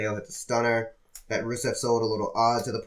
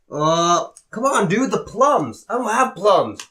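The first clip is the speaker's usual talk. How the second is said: higher, louder hammed-up hype man; mock Big E; 7 semitones higher, 5 dB louder, slower than usual. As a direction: whine it like an exasperated wrestler. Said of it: "he started to do".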